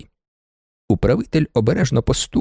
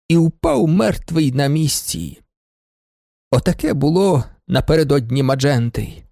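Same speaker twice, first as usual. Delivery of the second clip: ordinary delivery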